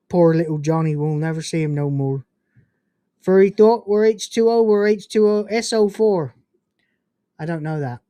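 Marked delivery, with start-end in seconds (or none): 0.1-6.3 a hint of Cornish accent, recited evenly; half-hearted go at a Cornish accent; tentative Cornish accent. Shown as a demonstration. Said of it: "I hope I did the accent okay".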